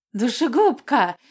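high, slow shrieking monster voice; eerie shriek. Acted. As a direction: screech it like a hungry water spirit. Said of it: "заверещала жутким голосом".

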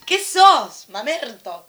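mocking taunt. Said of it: "Vos decís".

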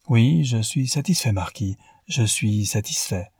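"je suis satisfait" said twice, each word pressed deliberately; leaning on the words. A narrator's reading. Newman assures the marquis, weighting each word of "je suis satisfait". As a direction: lean on "satisfait", measured and deliberate both times. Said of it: "en appuyant sur les mots".

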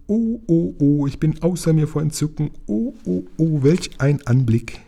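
high, chirpy little voice beside himself with delight; twittering. A narrator's reading. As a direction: chirp it like a tiny excited bird.

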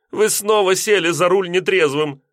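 high, reproving landlady; disapproving. A narrator's reading. Landlady reproving the drunk driver, high and disapproving. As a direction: tut at him. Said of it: "осуждающе качала головой".

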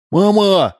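put-on high, loud child's call; shout. A narrator's reading. Son calling his mother from the window, shouting. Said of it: "закричал сын Удалова".

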